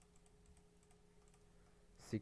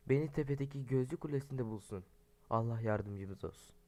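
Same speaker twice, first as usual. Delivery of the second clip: reading a note. Acted. Reads imam's note aloud.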